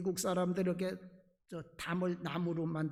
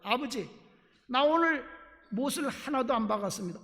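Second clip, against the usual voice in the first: put-on excited child; 4 semitones higher, 6 dB louder than usual. Son proudly reports to father.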